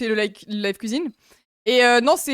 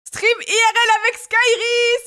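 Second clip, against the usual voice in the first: excited announcement; 9 semitones higher, 3 dB louder, slower than usual. Real, not acted. Announcing a sub goal reward.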